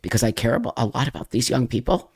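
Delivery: fighting tears, quiet and shaky; talking through held-back tears; emotional, holding back tears. Real, not acted. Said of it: "I get very emotional".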